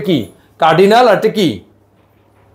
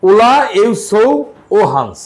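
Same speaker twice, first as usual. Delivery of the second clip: slow Spanish demo. Shown as a demonstration. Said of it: "এইভাবে বলবেন".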